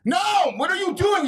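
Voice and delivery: high, loud protest; shouting. Real, not acted. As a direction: yell it in disbelief. Protesting loudly.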